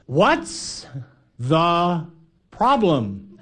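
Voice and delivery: casual unbothered question; calm reply. Acted. Jesus yelling back to the disciples, mild unbothered call. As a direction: toss it back lightly, unworried. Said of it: "yelling back".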